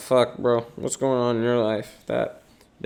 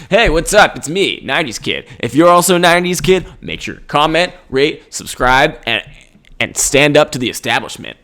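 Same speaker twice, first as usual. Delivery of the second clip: YouTuber voice; 6 dB louder than usual. Acted. Hammed-up nineties kid YouTuber bit.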